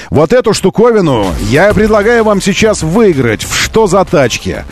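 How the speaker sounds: usual speaking voice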